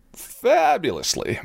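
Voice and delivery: delighted. Real, not acted. Host boasting to listeners about his weight loss, drawn-out delight. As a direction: savour the word, beaming.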